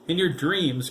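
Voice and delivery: high, loud protest; cry out. A narrator's reading. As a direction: shout it back indignantly. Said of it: "Chris cried".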